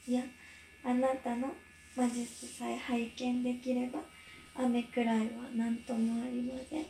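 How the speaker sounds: nervous trembling voice; stage fright. Real, not acted. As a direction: voice shaking with nerves. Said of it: "なんか声が震えてるぞ".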